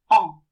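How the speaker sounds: "en" as one nasal French vowel; nasal sound. Shown as a demonstration. Teacher showing learners how E M is pronounced, nasal sound. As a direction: say "en" through the nose, with no N closed. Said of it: "It is a nasal sound".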